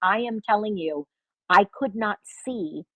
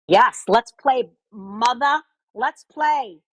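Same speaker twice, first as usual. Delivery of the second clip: excited; 4 semitones higher, 6 dB louder, slower than usual. Real, not acted. Eager to play game.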